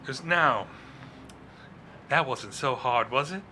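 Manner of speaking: mock the victim gently; gloating villain. Villain taunting the man he just interrogated, smugly. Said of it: "villain gloats after spell".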